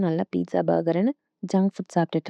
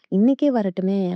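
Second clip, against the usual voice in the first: happy mock exclamation, slower and a little raised; retold delight; 4 dB louder than usual. Mother welcoming the match at once, retold as very happy. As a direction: voice her eager agreement, drawn out. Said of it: "அப்படின்னு ரொம்ப சந்தோஷப்படுறாங்க".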